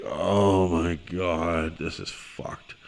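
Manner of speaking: fading from soft to whispered despair; whispered dread. Retold or imitated. Mortified at the bar scene, a fading whisper. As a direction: let it sink into a whisper. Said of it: "I'm just like".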